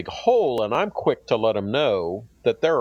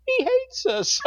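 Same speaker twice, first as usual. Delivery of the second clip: squeaky scared freshmen; slower than usual. Retold or imitated. Freshmen's stunned reaction, high voice.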